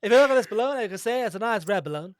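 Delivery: put-on jolly, fast old-school aviator; old-timey pilot voice. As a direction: play a chatty thirties pilot. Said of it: "starting to sound a little bit like Quagmire".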